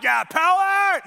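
high, drawn-out mock kid cheer; imitated excited kids. Kids answering their leader, high stretched cheer. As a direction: cheer like an eager child.

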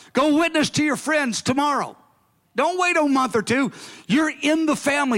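fervent call to act now; urgent commanding Lord. Retold or imitated. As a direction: urge them on at once.

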